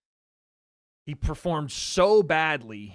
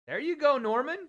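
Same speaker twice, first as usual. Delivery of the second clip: excited cheer; 10 semitones higher than usual. Real, not acted. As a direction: urge him on with a high, bright call. Cheering on his fighter live.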